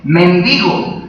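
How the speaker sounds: "mendigo" with an unstressed E, stress falling on DI; unaccented E. Shown as a demonstration. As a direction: say men-DI-go for "mendigo". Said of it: "Sin acento, esa palabra se lee".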